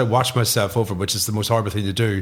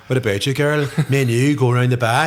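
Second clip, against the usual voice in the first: Northern Irish chat-up, more menacing than sexy; Northern Irish accent.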